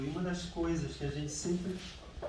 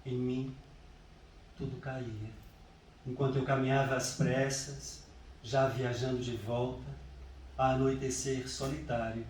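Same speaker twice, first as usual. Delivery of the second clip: deliberate recital with long pauses between phrases; solemn, measured verse reading; poetry reading. Acted. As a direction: recite the elegy line by line, unhurried. Reads poem on mother's death.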